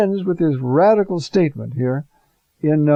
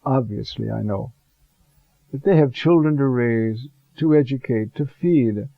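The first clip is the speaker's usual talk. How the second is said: calm Lord's voice. Retold or imitated. The Lord calmly answering the worried priest in the car, gentle and calm. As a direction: speak as a kindly Lord, unhurried. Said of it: "very calmly said".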